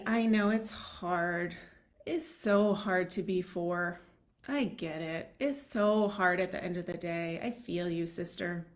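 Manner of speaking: slow, soothing words of sympathy; slowly meet the tired child with understanding; empathetic comfort. Shown as a demonstration. Parent modelling empathy for a worn-out child, slow and soothing. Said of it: "offering some empathy".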